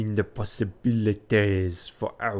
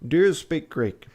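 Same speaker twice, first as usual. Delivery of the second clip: higher, louder posh gentleman; 7 semitones higher, 4 dB louder than usual. Acted. Fogg asking his valet about Greek, posh voice. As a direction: play it as a stiff posh master. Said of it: "I'm trying to be posh".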